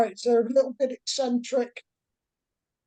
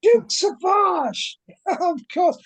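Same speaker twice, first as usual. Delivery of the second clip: flamboyant British professor; 3 semitones higher than usual. Acted. Professor Fontaine pleads with the investigators, lightly posh and fussy. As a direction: play the flustered posh professor missing his student.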